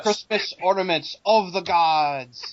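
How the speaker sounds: slow, stretched mock proclamation; mock-grand quote. Fan quotes the film for friends, mock-grand and slow. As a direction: draw it out like a portentous announcement.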